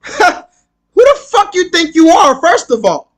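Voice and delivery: angry, high-pitched confrontation; mad. Real, not acted. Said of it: "This is the reason why I'm mad".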